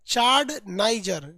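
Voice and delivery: चाड नाइजर drawn out slowly, चाड stressed with a falling end; slow drill. Shown as a demonstration. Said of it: "फटाफट बोलते जाइए". (चाड नाइजर को बहुत धीरे-धीरे, चाड पर ज़ोर देकर)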